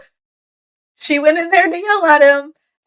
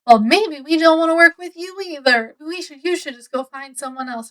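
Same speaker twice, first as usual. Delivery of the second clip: mildly mean retold brush-off, raised at the start; imitating someone being a bit mean; kind of mean; 3 semitones higher than usual. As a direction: dismiss them with a touch of spite. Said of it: "kind of mean to her".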